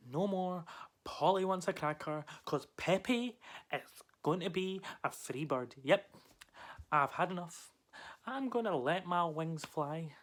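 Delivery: slow, emphatic cry for freedom; defiant declaration. Acted. Parrot announces its escape from the cage, defiant and emphatic. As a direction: proclaim it with rising resolve.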